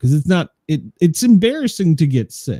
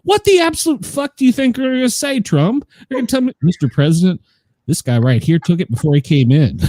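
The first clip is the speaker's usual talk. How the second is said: quick, higher mock Trump voice; 3 semitones higher, faster than usual. Mimicking the president to the visitors, mock Trump voice. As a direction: rattle it off like Trump. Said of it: "he turns to them and he goes".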